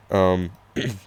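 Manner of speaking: scratchy voice, clearing the throat; hoarse voice. Real, not acted. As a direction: croak through a tired throat. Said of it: "I'm losing my voice today".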